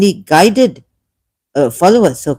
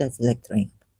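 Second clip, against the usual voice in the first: disgusted; 6 semitones lower, 10 dB quieter, faster than usual. Real, not acted.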